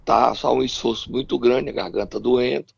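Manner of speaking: hoarse, strained sore-throat voice; voice giving out. Real, not acted. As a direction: force the words out with little voice left. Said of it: "Eu até agora não tenho voz".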